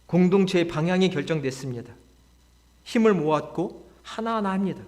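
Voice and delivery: normal talking voice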